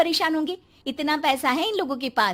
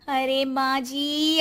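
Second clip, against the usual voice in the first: weary drawl; much slower than usual. Acted. Bride sighs at mother-in-law.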